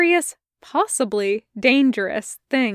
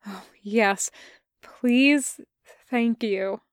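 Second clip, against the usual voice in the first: relieved; slower than usual. Acted. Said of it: "Tanema breathed in relief".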